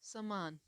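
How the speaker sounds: समान with a short first a, sa-maan; teacher modelling समान; slow clear demo. Shown as a demonstration. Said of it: "जैसे कि".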